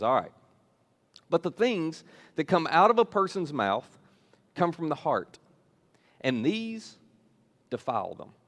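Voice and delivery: weighty delivery with deliberate pauses; serious. Retold or imitated. Jesus telling disciples what defiles them, serious. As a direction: turn earnest, pausing between phrases to let each land. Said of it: "And then Jesus gets serious".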